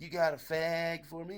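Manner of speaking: slow, drawn-out come-on; drawling, insinuating stranger; suggestive stranger. Retold or imitated. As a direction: stretch it out like a suggestive request. Stranger's suggestive request acted out.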